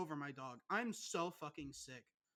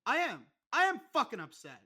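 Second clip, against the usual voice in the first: louder mock outburst, a bit higher; shouting fake upset back at a teasing friend; hammed-up upset; 4 semitones higher, 10 dB louder than usual. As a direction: play-act the furious friend on cue. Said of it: "Be upset".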